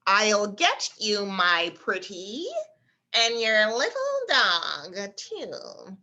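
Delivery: slow, lightly voiced witch threat; a hint of the Wicked Witch, drawn out. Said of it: "the Wicked Witch's famous statement".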